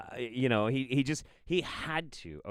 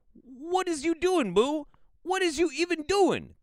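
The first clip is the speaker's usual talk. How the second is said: very high, loud squealed scolding; mock outrage; 6 dB louder than usual. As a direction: squeal it slowly in comic disbelief. Mock scolding the video's author.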